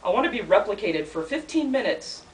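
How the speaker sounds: measured recital, each wish its own line; poetry reading. Acted. Poet reading a surrealist poem to an audience, measured recital. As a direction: read it as a poem with a repeated opening. Reads third poem aloud.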